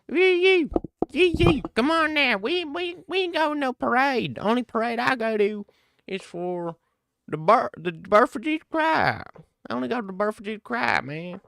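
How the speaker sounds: high hammed-up Southern redneck accent. Streamer mocks a rural Southern fighter in a high hammed-up Southern accent. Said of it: "Or with my accent?".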